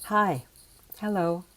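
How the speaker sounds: greeting sent out to the other person; directed at the listener. Shown as a demonstration. Teacher showing speech aimed at listeners, outgoing. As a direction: say it for you, not for yourself. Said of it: "I'm saying it for you".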